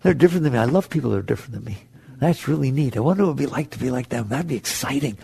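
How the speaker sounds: a hint of gentle wonder; open-minded wonder. Shown as a demonstration. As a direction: sound genuinely curious about others. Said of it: "Just say".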